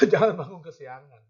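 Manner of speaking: a sudden loud call not to oversleep; loud warning. Real, not acted. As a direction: bellow the warning at the congregation. Preacher warning against oversleeping.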